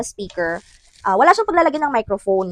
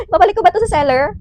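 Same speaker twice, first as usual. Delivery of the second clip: high, quick tearful whine; mock crying; 6 semitones higher, 4 dB louder, much faster than usual. Vlogger threatening to return a dead mic, mock-tearful. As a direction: whimper it as a hammed-up complaint.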